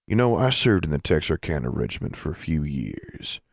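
lightly voiced formal dean; dean of the eighth grade. Dean tells a student about his service, lightly voiced official.

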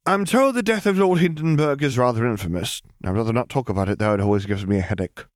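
put-on young girl Lily. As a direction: say it lightly, as if it's nothing. Lily voiced by narrator.

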